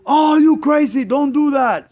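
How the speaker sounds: high, loud mock outburst; shocked protest. Friend reacts to releasing birds in the wind, shocked protest. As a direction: imitate an alarmed friend protesting.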